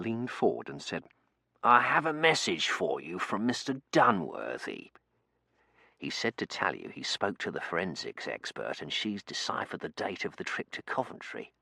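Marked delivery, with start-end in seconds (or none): 1.6-11.5 lightly voiced formal butler; butler's confidential report; discreet butler with message. Finch delivers a message.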